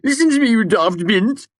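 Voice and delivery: loud, high mock Ambrose accent; Ambrose's accent. Sim mocking Ambrose for friends, hammed-up accent. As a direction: ham up Ambrose's old-fashioned accent. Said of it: "in a fair imitation of Ambrose's vintage accent".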